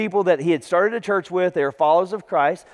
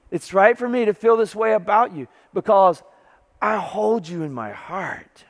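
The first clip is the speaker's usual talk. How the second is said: heartfelt emotion. Retold or imitated. Paul telling the church he loves them, heartfelt emotion. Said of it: "listen to the emotion of this".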